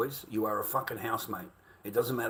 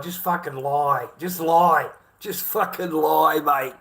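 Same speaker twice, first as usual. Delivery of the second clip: louder, slow, hammering each word; exasperated yell; 3 semitones higher, 8 dB louder, slower than usual. Real, not acted. Ranting to viewers about lying in court, loud and exasperated. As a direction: spit it out, fed up and disbelieving.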